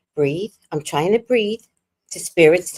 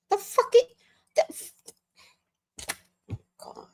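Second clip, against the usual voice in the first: a real whispered sigh of God; whispered exasperation; 9 dB quieter than usual. Real, not acted. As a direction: breathe it out, fed up. Exasperated aside.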